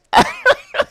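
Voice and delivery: real squeal of laughter; very high laugh. Real, not acted. Agent cracking up at the insurer. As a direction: bursts out laughing.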